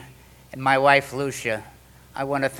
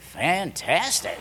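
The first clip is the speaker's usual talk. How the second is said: delighted; 3 dB quieter, much slower than usual. Retold or imitated. Delighted reply at hotel suite.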